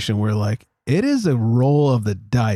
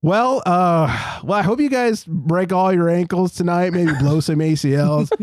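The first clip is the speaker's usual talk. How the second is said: mock cheerful jab; 5 semitones higher than usual. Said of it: "I was like".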